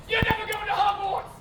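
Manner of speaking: high theatrical cry; hammed-up, high-pitched taunt; mock pronouncement. Acted taunt to ginger kid.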